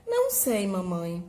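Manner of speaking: lightly voiced child who doesn't know; confused child. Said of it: "O filho, confuso, responde".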